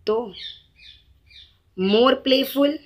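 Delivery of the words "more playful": more playful drawn out very slowly, rising on playful; very slow demo. Shown as a demonstration. Teacher slowly modelling more playful for the students. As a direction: say it slowly so they can copy. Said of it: "right?".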